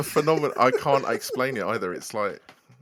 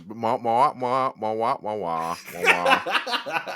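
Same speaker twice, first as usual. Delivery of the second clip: blocked nose, nasal "ma ma"; much slower than usual. Pretend. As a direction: squeeze it through the nose, laughing. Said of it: "How do you feel if I say airplane?".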